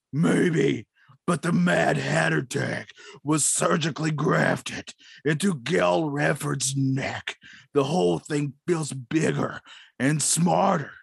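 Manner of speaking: slow, lightly voiced Batman; a hint of a brooding Batman. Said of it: "the part of Batman be played by Jason Batman".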